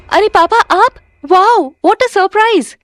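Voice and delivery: put-on thrilled girl welcoming her dad home; excited greeting. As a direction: gush with surprise. Daughter greets returning father.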